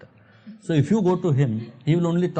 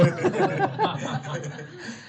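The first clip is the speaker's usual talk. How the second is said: high laugh; 4 dB quieter than usual. Real, not acted. Laughing at own story.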